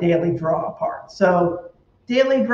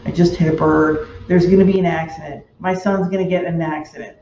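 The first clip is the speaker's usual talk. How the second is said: louder and fast, spiralling into worry; retold fast panic about a car accident; mock panic; 2 semitones lower, 3 dB louder, faster than usual. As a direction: rattle it off like the worst is already happening. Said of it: "I'm just like".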